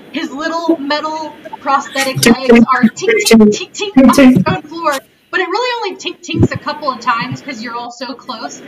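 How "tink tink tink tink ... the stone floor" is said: quick, punchy sound words; excited narration. A narrator's reading. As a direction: rattle off the clinks. GM voices metal footsteps.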